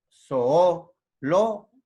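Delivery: so-o, pause, lo for "soolo"; vowels separated. Shown as a demonstration. Teacher showing a hiatus, "soolo" split syllable by syllable. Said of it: "dos hiatos".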